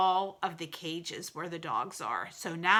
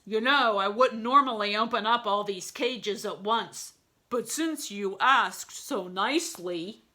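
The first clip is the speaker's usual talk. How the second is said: louder, slowing at the end; gruff guard charmed; lightly voiced gorilla guard; obliging gorilla; 2 semitones higher, 5 dB louder than usual.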